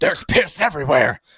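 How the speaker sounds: mock token scream, kept small, mild yell. Retelling how someone walked into the bathroom, retelling a scream. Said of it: "just screams".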